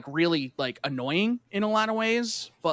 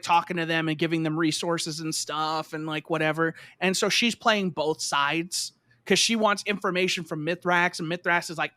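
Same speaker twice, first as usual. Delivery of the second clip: usual speaking voice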